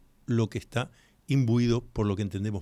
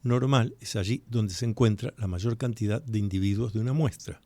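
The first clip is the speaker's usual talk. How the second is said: definition spaced out phrase by phrase; slower repeat. Shown as a demonstration. Radio host repeating a definition for listeners, slower and segmented. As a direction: repeat it more slowly, pausing between the chunks. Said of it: "Se lo repito más despacito".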